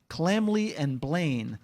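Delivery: ordinary talk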